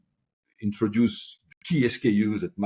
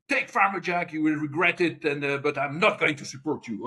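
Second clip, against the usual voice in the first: raised-pitch mock angry boss; 5 semitones higher than usual. Angry boss warning his employee who insists, mildly acted. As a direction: lay down a threat, mildly acted. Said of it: "violent, and he said".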